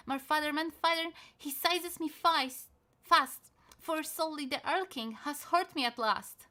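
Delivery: high, loud terrified cry; panicked child. Acted. Seized child crying to father, panicked. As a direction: scream for father as he's seized.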